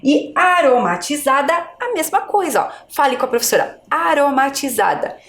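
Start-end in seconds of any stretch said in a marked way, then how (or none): 0.3-1.5 aromatizada with a light tapped R; weak R. Shown as a demonstration. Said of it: "a minha pronúncia é fraca". 3.9-5.2 aromatizada with a light tapped R; weak R. Shown as a demonstration. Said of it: "a minha pronúncia é fraca".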